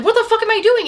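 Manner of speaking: high, loud startled outburst; acted shock. Woman coming to herself mid-kiss, acted shock. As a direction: imitate someone suddenly snapping to their senses.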